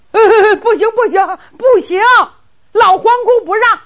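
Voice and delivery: laughing refusal. Acted. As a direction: servants laugh off Qin Ying's demand. Servants refuse, laughing nervously. (高声笑着拒绝)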